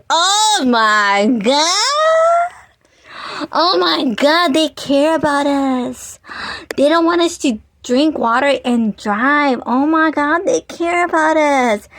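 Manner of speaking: high, excited, touched gushing. Retold or imitated. Friends gushing that the company cares about them, excited. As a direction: gush like nobody ever cared before. Gushing over the fishbowl kindness.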